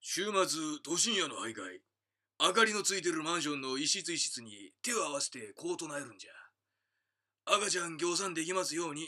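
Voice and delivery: lightly put-on yakuza tone; yakuza style. Shown as a demonstration. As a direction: read it like a toned-down gangster. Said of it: "これじゃあちょっとヤクザ風に言いましょうか".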